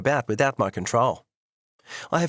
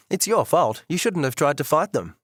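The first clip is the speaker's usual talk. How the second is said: angry blame; 4 semitones higher than usual. Acted. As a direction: throw the blame right back at him. Wife blames husband in quarrel.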